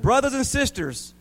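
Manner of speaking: high, drawn-up call to a crowd; high, rousing pulpit call; preacher's shout. A narrator's reading. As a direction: address the flock from a tractor. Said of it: "He shouted".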